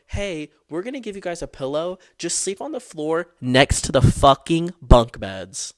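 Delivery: half-shouted counselor order, dragging out the floor part; mock counselor shout. Counselors telling the leftover kids to sleep on the floor, mock loud order.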